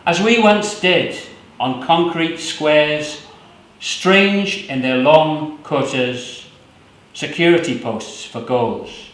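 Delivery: measured, unhurried poetry recital; poem reading. Acted. Poet reading his own poem to the audience, measured. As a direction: let each image land slowly.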